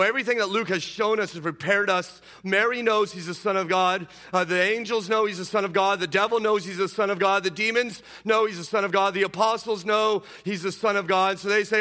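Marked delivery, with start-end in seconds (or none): 2.4-11.4 loud, high, rhythmic repetition; building rhetorical list. Real, not acted. Preacher listing witnesses, loud and rhythmic. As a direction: hammer the refrain each time.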